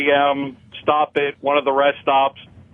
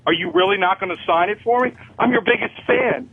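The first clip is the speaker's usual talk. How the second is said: pleading fan; 6 semitones higher than usual. Retold or imitated. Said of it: "And he's like".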